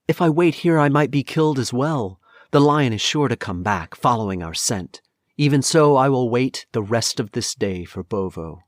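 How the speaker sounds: high, anxious fretting, easing toward the end; frightened but resolving to wait; distressed. A narrator's reading. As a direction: worry aloud, starting high and loud, then settling. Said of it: "she began to weep and wail".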